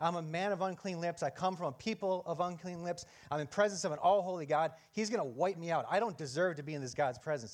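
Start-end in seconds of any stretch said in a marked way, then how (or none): none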